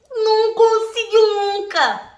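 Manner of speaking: high, slow, drawn-out gloating exclamation; triumphant cry. Real, not acted. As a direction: stretch it out, crowing in triumph. Triumphant punchline of the story.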